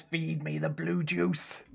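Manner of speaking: slow, drawn-out mock demand; reading out Lazy's demand. Streamer voicing a viewer's plea, slow mock demand. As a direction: stretch out a playful chant-like demand. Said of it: "Lazy says".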